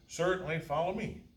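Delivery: eager clerk. Acted. Clerk leads the way.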